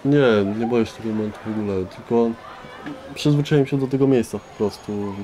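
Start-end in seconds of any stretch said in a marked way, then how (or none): none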